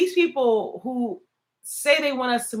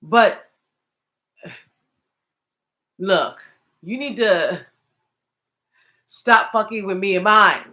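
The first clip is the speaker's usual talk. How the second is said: stern warning; 2 semitones lower than usual. Retold or imitated. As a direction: warn them off, building heat. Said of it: "sometimes you just like".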